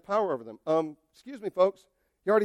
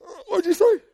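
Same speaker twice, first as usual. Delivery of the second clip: unimpressed Jesus; 11 semitones higher than usual. Acted. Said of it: "And Jesus like".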